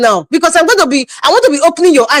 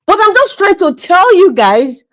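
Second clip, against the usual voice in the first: higher, slow, laughing; still laughing; 7 semitones higher than usual. Real, not acted. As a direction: fight back the laugh as you speak. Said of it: "I'm sorry I'm laughing".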